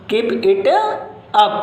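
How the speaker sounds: "Keep it up" with pitch climbing at the end; rising tone. Shown as a demonstration. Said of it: "इनको अगर हम rising tone के साथ में बोलें". (चढ़ती टोन में "Keep it up")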